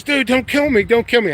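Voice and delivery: mock pleading. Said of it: "And he goes".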